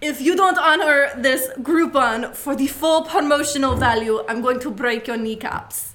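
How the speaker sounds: put-on speaking with French accent. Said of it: "I cannot promise this will be better than his".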